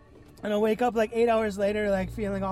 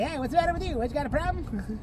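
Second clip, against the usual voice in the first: put-on higher-pitched, challenging Canadian accent; Canadian scientist; 6 semitones higher, faster than usual. Canadian scientist challenging the patient, mock Canadian accent. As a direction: push back as a hammed-up Canadian. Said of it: "the, the Royal Canadian Ministry of Science".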